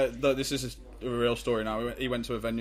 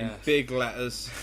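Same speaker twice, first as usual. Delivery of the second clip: slow, heavy emphasis on big; slow emphatic; slower than usual. Acted. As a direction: drag out In big letters. Mocking the misread names.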